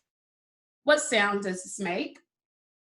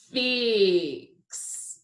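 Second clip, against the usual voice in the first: FIX stretched out, vowel held long; said slowly. Shown as a demonstration. Teacher giving pupils their word, FIX said slowly. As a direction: draw FIX out sound into sound. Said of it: "I will say a word slowly".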